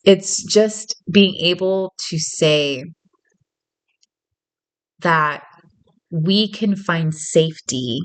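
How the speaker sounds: slow and earnest, spacing the words; heartfelt slow delivery; sincere, slow. Real, not acted. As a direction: lay it down gently and slowly. Earnest slowed message.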